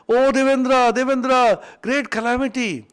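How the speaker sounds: calling out loud in alarm to Indra; frightened cry for help. Acted. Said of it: "became frightened and came back and cried".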